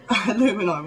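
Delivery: "Alumini" as a-LOO-min-eye, through a laugh; mimicked American pronunciation. English speaker puzzled at Americans, laughing "Alumini" stressed on LOO. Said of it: "America say alumini".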